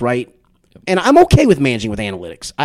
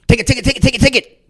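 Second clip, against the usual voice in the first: higher, louder mock yell of take it; retold panicked shout to a teammate; urgent call; 8 semitones higher, 4 dB louder, faster than usual. Teammate hands off the fly ball, higher urgent mock yell. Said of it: "all of a sudden he goes".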